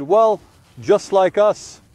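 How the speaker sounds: slow, drawn-out rueful reply; wistful sigh. Retold or imitated. Childless listener answering the preacher, slow wistful sigh. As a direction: let the longing stretch each word.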